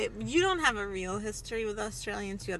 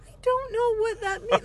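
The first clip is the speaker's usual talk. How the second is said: high, louder exasperated "I don't know"; baffled protest; 12 semitones higher, 5 dB louder than usual. Retold or imitated. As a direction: insist you're genuinely lost. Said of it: "I was like".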